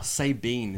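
Sabine said say-BEEN; favourite mispronunciation. Shown as a demonstration. Guest quotes his favourite botched name, Sabine as say-bean. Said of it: "Sabine is my favorite one".

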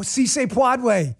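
"puede" botched as "pwahd-way", slow and high; mock the mispronunciation, "puede" as "pwahd-way"; botched Spanish. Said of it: "Jill Biden".

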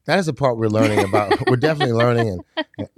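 laughing while talking; light chuckle through the words. Real, not acted. Joking about learning sports betting.

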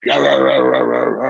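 imitating a coach barking rah rah rah; a mimicked tirade, sounds not words; mock yelling. Wrestler imitates coach yelling at him, mock yelling. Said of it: "starts yelling at me".

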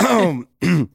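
slow, raspy gravelly singer's growl. Shown as a demonstration. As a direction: growl it like a whiskey-soaked singer. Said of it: "the guy that sings like this".

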